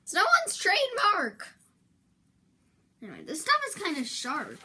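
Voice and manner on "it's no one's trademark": much higher, louder protest; no one owns that word; exasperated outburst. Real, not acted. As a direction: blurt it out in disbelief.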